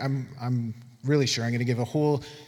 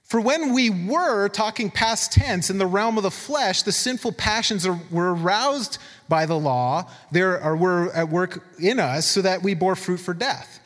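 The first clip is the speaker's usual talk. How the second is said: emphatic scripture reading; 2 semitones higher than usual. Acted. Preacher reads Romans to the church, emphatic scripture reading. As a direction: read the verse out with raised, deliberate weight.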